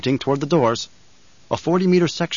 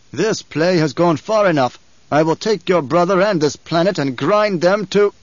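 slow rising imperial fury; furious emperor; 5 semitones higher, 4 dB louder than usual. A narrator's reading. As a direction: let the emperor's rage build. Emperor enraged.

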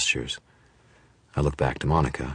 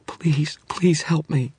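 whispered plea; 13 semitones higher, 4 dB louder, much slower than usual. A narrator's reading. Dresden pleading softly.

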